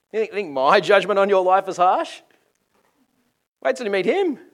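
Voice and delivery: high, shouted challenge; loud warning. Acted. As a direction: fling the warning out at full voice. John warning of harsher judgment.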